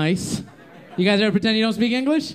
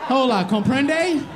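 slow, higher, over-explaining tourist voice; patronizing tourist; 6 semitones higher, much slower than usual. Retold or imitated. Tourist couple's husband asking a Latino for directions, slow and patronizing. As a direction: talk down to a foreigner, drawing each word out. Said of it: "He was like".

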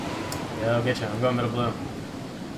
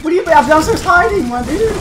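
yelling across the room; 4 semitones higher, 5 dB louder than usual. Real, not acted. Answering teammate across map.

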